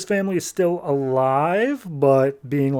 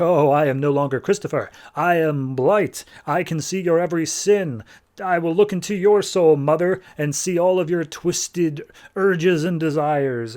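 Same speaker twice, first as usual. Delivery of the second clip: menacing villain; 3 semitones higher, 3 dB louder than usual. Acted. Villain Blight menaces his mother.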